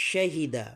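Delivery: শাহিদা opening on a clear "sh"; teacher's careful "sh" in শাহিদা; model sh pronunciation. Shown as a demonstration. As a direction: say শাহিদা with a hushing first consonant. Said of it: "এভাবে উচ্চারণ করবেন".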